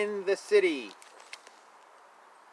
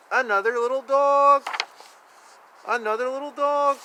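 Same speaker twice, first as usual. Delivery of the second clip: much higher sweet little dog voice; cute high voice; 7 semitones higher, faster than usual. Pretend. Reading to child, high cooing little dog. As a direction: coo it like a tiny puppy.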